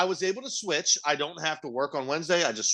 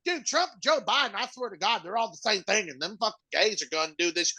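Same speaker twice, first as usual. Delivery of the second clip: higher, rambling ranter voice; crazy bar ranter; 4 semitones higher, 3 dB quieter than usual. Retold or imitated. The bar ranter talks at a Packers fan, higher, unhinged. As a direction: play the drunk loon at the bar.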